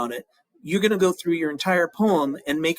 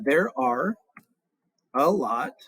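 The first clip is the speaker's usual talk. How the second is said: counting syllables; much slower than usual. Shown as a demonstration. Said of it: "So surprises has more".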